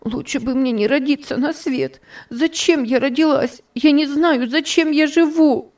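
Topsy laments her life to Miss Ophelia; wailing lament. A narrator's reading. High wailing lament. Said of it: "причитала Топси".

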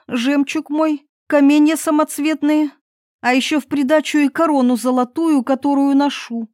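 a princess promising anything, a touch breathless; eager princess. Acted. Princess bargaining with the frog, eagerly. Princess voiced in fairy tale.

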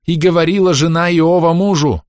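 zealous sister shouting scripture. A narrator's reading. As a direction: cry it out to the room. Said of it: "крикнула сестра Маланья".

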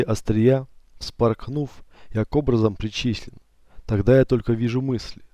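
measured poetic reading, slowing at the end; poem recitation. Acted. Narrator reads his contemplation poem, slowing to a hush. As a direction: recite it like a meditative verse.

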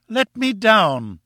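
high, long-drawn wail. A narrator's reading. Wife perched high begging husband, wailed. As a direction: stretch it into a high, helpless wail. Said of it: "she wailed".

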